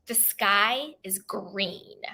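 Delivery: a slow, hushed claim, slightly drawn out; softly voiced donkey stating it slowly; lightly voiced donkey. Donkey says it to lion in the parable, lightly voiced.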